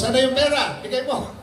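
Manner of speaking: hammed-up greedy godchild; mock demanding kid. Mocks child demanding godparent money. (batang nanghihingi ng pera, pabiro)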